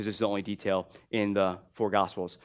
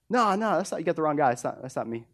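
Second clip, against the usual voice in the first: flustered denial; 5 semitones higher, faster than usual. Retold or imitated. Peter flustered, denying the accusation.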